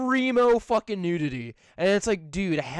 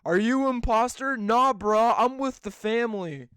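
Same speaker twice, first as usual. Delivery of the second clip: Vin Diesel; 3 semitones higher than usual. Acted. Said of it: "Vin Diesel standing right there".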